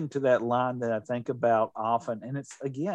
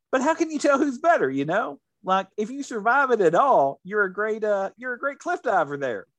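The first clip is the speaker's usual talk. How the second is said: animated; 5 semitones higher than usual. Retold or imitated. Retelling Norm's cliff diving bit.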